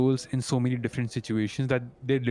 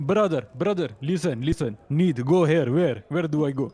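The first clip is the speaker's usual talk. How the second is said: imitated Arab accent. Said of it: "I just imitated their accent".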